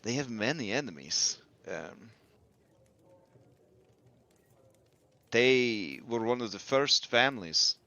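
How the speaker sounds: lightly voiced, weary character; Muriel. Telling the group about an old family's enemies, mildly weary. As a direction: recount old history with a touch of weariness. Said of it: "sighs a bit and says".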